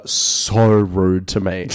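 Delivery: slow words broken by laughter; laughing through the words. Real, not acted. Recounting rude tourists, laughing.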